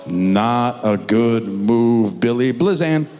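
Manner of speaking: slow, drawn-out dismissal; lightly voiced teen ruffian; bored teen brush-off. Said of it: "So he just goes".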